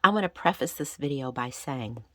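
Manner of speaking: gravelly from being sick; a little hoarse and raspy after illness. Real, not acted. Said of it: "my voice sounds a little gravelly or raspy".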